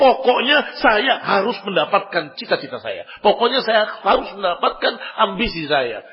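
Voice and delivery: a hint of a headstrong man, loud; a stubborn ambitious man. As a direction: insist like someone who won't be denied, lightly voiced.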